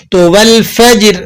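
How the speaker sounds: light qalqalah echo on والفجر, slowly; just a small bounce on the final ر of والفجر. Shown as a demonstration. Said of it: "یہاں پر آپ نے چھوٹا قلقلہ ادا کرنا ہے".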